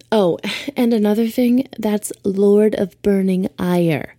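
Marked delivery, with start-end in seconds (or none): 1.8-4.1 Ire said slowly and firmly; stress on Ire. Shown as a demonstration. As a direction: lean on Ire, drawn out. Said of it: "not iron".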